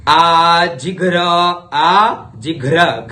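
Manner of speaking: आजिघ्र with ghr cluster said slowly and clearly; clear ghra. Shown as a demonstration. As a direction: sound out आजिघ्र, stressing घ्र. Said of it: "घ्र का उच्चारण करना है।". (आजिघ्र में घ्र का स्पष्ट उच्चारण)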